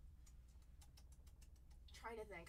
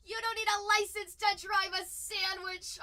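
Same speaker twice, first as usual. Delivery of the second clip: quoting a card line; 7 semitones higher, 12 dB louder than usual. Retold or imitated. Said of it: "my favorite one".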